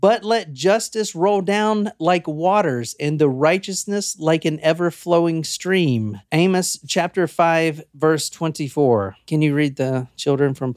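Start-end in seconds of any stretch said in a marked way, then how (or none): 0.0-9.2 slow, measured verse reading; solemn scripture reading. A narrator's reading. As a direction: read the verse out slowly. Reads out a scripture quote.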